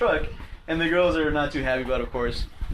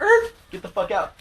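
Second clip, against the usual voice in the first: retold angry order; 5 dB louder than usual. Kicking date out of truck.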